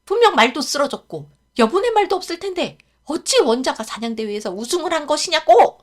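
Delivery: wailing 아이고 분해 in frustration; shocked fury. Acted. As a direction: rant in disbelief and spite. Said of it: "크게 놀라 화를 냈습니다".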